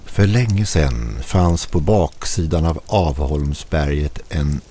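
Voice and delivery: slow, theatrical storyteller voice; a hint of a dramatic storyteller. A narrator's reading. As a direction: read it out like a ghost story. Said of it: "fortsatte med teatralisk röst".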